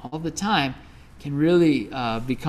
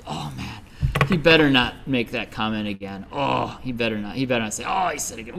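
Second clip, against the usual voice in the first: low, held-in mock anger; grudging inner seething; 4 semitones lower, faster than usual. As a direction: grumble to yourself with a grudge. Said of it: "I started to hold a grudge".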